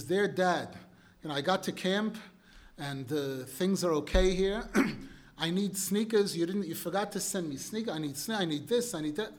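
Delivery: loud, dry and unemotional, no warmth at all; gruff neighbor reading. Acted. Neighbor reads the son's letter to the father, gruff and dry. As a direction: bark the son's letter out like a cold stranger. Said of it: "very gruff nature, very unemotional, very dry".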